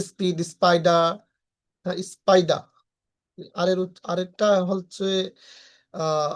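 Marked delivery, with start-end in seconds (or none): 0.1-1.1 "স্পিড, স্পাইডার" with plain P after S; unaspirated P. Shown as a demonstration. Teacher listing words said the usual way, unaspirated P. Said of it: "উচ্চারণ করে থাকি". 2.1-2.6 "স্পাইডার" with a plain P, no puff; hard P after S in "স্পাইডার"; unaspirated P. Shown as a demonstration. Teacher repeating the example word, unaspirated P. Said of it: "অ্যাসপ্রাইডেড সাউন্ডে উচ্চারণ করব না".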